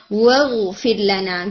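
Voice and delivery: slow واغفر لنا with the واو close to a فا sound; recited phrase. Shown as a demonstration. Teacher imitates the student's slip, slow chant. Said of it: "یہ واو مجھے تھوڑا فا کی طرح لگا ہے".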